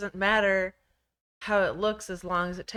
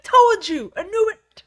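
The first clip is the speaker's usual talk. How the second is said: loud high I-told-you-so; 13 dB louder than usual. Retold or imitated. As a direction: gloat loudly. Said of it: "I'm like".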